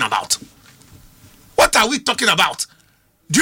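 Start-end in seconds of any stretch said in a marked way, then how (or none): 1.5-2.7 repeated louder, "are" pushed up. Real, not acted. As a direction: hit it again, louder and incredulous. Repeats question in disbelief.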